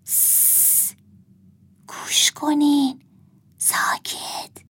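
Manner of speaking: soft whispered shushing; hushing whisper. A narrator's reading. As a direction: whisper to hush everyone. Girl shushes the others.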